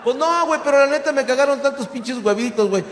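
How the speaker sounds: put-on Mexico City chilango accent. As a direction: answer in cocky chilango accent. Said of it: "se me pega el asiento chilango".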